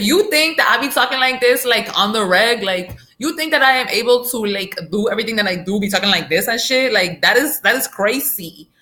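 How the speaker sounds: put-on quick Washington Heights girl talk. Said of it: "you know how you talk in that video".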